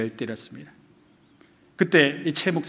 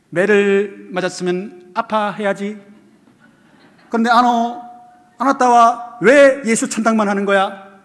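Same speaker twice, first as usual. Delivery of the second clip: higher, louder, slow mock Japanese officer; Japanese policeman; 8 semitones higher, 8 dB louder, slower than usual. Japanese officer demanding why the beaten pastor cries heaven, loud mock Japanese accent. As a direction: bark it like a baffled colonial guard. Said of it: "이 일본인 순사가 이렇게 말했답니다".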